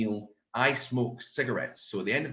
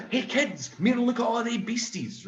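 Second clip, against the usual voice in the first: put-on excited call to kids; 12 semitones higher than usual. Shown as a demonstration. Calling children over.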